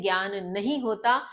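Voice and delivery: ज्ञान said as "gyan" with g and y; wrong pronunciation. Shown as a demonstration. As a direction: give the common ज्ञान, gyan. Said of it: "इसका भी सही pronunciation".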